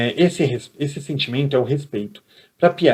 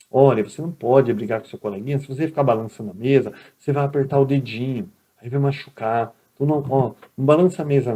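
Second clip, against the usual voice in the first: calm, gentle classroom correction; patient teacher. Retold or imitated. Teacher gently telling a pupil to stop rocking the desk, patient. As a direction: guide the pupil kindly. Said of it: "assim que ensina o professor".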